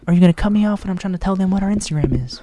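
hammed-up indignant radio host; put-on host voice. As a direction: stay in the mock radio voice while objecting. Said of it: "you're adopting this accent".

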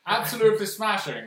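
posh English. Retold or imitated. Mocking posh English stereotype.

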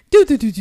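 stuttering engine-like "do do do"; imitated car trouble. Imagining driving through flood water, sputtering sound effect. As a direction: sputter it out as a noise.

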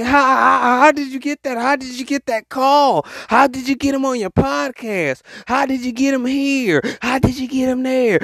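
hammed-up amazement at someone's luck; mock disbelief. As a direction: imitate jealous friends pestering with questions. Imitating jealous friends' disbelief.

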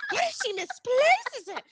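mocking repeat. Fan mocking Curtis over the paper, sarcastic. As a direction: throw it back at him with scorn. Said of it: "I was so effing angry".

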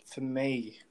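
hoarse, croaky throat; Gregory voice. Real, not acted. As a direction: gravelly voice. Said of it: "a bit of a Gregory voice there".

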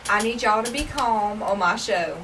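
slow, soft mock ASMR; hushed, slow ASMR host. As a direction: draw it out softly to calm them. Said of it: "we just do A S M R".

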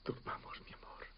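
soft tender whisper. Acted. Husband calming his wife at night, tender whisper. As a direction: lull her to sleep.

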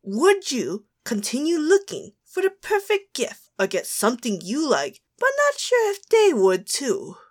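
put-on British accent, lifting high at the end; theatrical British quiz reader. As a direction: read the question in a mock British voice. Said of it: "Get into your British voice".

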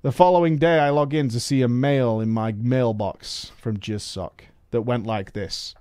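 normal talking voice

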